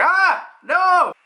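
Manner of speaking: high, loud cry while fleeing; hammed-up scream of alarm; mock panicked yell. Acts out fleeing under fire.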